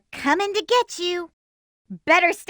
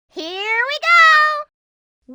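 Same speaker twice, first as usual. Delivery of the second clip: excited; 10 semitones higher, much slower than usual. Acted. Setting off excitedly.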